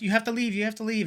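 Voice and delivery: high, firm imitation of the staff lady; staff lady insisting. Imitating the staff lady telling the line to leave, high and firm. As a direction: mimic her ordering people out. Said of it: "she's like".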